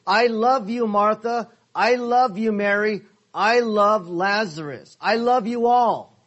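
emphatic declaration of love. Acted. Preacher voicing love for Martha, Mary and Lazarus, emphatic. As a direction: declare it firmly to each one. Acts out God's love for each named.

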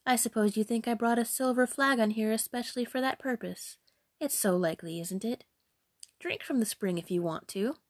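haughty, sarcastic dismissal; mildly sneering damsel; arrogant. Acted. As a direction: brush them off with lofty scorn. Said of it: "said the loutish damsel arrogantly".

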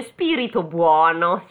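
flattering. Acted. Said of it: "gli fa un po' il paraculino".

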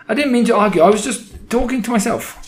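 very high, frightened excuse; squeaky, cowering underling; cried. A narrator's reading. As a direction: plead innocence in panic. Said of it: "the witch cried".

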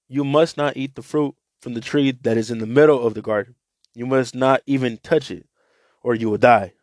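scripture reading to listeners; Bible reading. Acted. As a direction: read the scripture out to the group. Reads Bible passage aloud.

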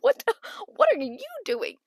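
high-pitched incredulous comeback; mock indignation. Confused player answering the coach, high mock indignation.

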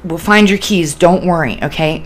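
gentle comfort, easing down at the end; calm them with a steady promise; reassuring. Shown as a demonstration. Helper comforting a manic person over keys, reassuring. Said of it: "you know, reassurance".

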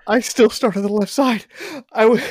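high, loud, cracking up; laughing confession. Real, not acted. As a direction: confess it while bursting into laughter.

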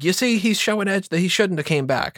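high-pitched heel commentator impression; Jerry Lawler. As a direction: needle them as the villain's announcer. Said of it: "prime Jerry Lawler, you know, heel".

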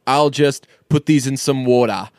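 Birdie's accent, lightly put on for WATER; non-rhotic WATER in a borrowed accent; imitating Birdie's accent. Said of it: "she's gonna say".

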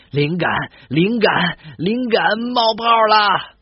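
drawn-out, thrilled cry of inspiration; excited about inspiration. Acted. Woken at midnight, a writer cries out excitedly. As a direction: savour the word like a eureka. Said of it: "兴奋地说".

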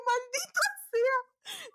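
high, drawn-out mock curse. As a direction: stretch the curse out slowly, exasperated. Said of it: "Y yo". (maldición fingida, alta y muy lenta)

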